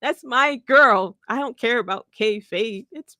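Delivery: lightly voiced mock-tearful fan, breaking into laughs; mock whiny insistence with laughter; crying fan meme. A hint of a crying fan's voice for Buddy, laughing. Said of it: "put Buddy Matthews' face on that kid".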